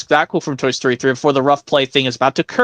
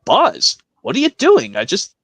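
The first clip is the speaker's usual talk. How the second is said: Woody voice; 4 semitones higher than usual. Acted. Woody quote.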